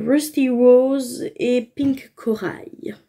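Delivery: slow, careful French-accented English. Real, not acted. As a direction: shade names in a hesitant French-accented English. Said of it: "On adore mon accent anglais".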